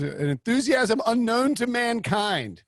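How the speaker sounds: high, slow, drawn-out quote voice; Jim Harbaugh. Acted. Host quoting a coach's famous line, high drawn-out impersonation. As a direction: stretch it out as a grand, high-pitched proclamation. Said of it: "what Jim Harbaugh's line was".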